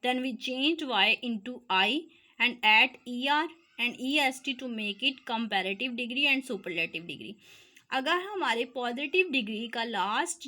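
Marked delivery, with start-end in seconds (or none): 0.0-7.3 reads each English word slowly for notes; teacher dictating the rule to students, slow and deliberate; slow dictation read. Shown as a demonstration.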